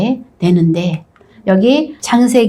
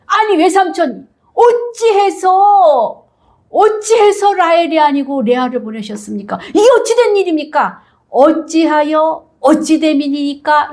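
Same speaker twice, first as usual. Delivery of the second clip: indignant demand; 6 semitones higher than usual. Acted. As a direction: demand answers from the uncle who cheated you. Jacob demands explanation from Laban.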